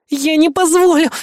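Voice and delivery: high, strained effortful cry; Kay straining to hold his hand, high; straining grunt. Acted. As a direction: squeeze it out while straining. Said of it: "прокряхтела Кей".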